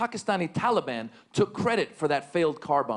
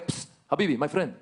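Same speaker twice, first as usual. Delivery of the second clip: shady dealer. Retold or imitated. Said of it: "the guy's".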